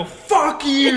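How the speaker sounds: high, loud swear, half laughing; startled yell. Retold or imitated. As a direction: yell it back the instant you get scared. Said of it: "I go".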